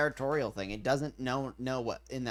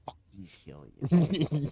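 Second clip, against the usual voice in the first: slow, louder threatening growl; mock threat; 2 semitones higher, 6 dB louder, much slower than usual. Imitating a fed-up owner threatening the pet, slow. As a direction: drag it out like a menacing owner. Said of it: "wanting to be like".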